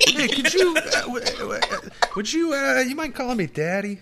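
high, stammering, awkward ask; mock hesitant request. Acting a shy partner asking for the name, high hesitant stammer. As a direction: fumble nervously toward the favour.

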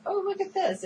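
high-pitched imitation of an excited shopper. Voicing the character browsing the store, excited. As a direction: pipe up as if delighted by a find. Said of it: "she's excited".

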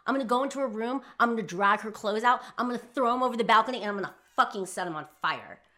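loud, high furious rant; retold angry yelling. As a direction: reenact blowing up in fury, hammering the swear words. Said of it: "just started yelling".

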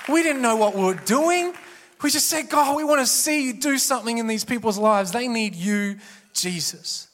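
fervent plea. Retold or imitated. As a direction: cry out to God with urgency. Retelling fervent school prayer.

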